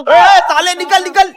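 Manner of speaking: angry yell to get out; slow angry shout. Acted. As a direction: shout him out slowly and loud. Teacher throws student out.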